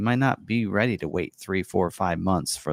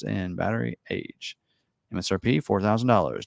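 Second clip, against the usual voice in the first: announcer voice. Pretend. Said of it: "like, announcer voice".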